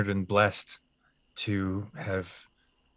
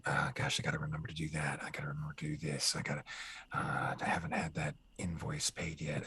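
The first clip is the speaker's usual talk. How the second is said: low, hushed, hurried self-talk; Geralt muttering to himself; 5 semitones lower, 11 dB quieter than usual. Acted. Actor alone at home running through his chores, muttering low like Geralt. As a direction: mumble it low and quick, under your breath. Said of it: "I'm just talking to myself".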